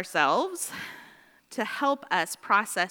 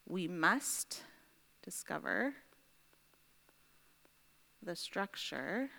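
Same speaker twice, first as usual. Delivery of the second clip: slow dictation; 7 dB quieter, slower than usual. Real, not acted. Writing out while dictating aloud.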